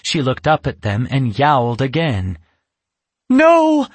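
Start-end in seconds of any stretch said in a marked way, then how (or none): 3.3-3.9 sharp high alarmed cry; exclaiming. Acted. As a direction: blurt it out in shock. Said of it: "Yasmin exclaimed".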